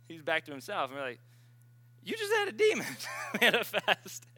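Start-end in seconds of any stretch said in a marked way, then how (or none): 2.0-4.2 excited exclaim. Retold or imitated. Friends telling him about demon.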